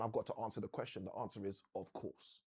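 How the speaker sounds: a touch of a motivational speaker answering himself; Jim Rohn fashion. Retold or imitated. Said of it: "in good old Jim Rohn fashion".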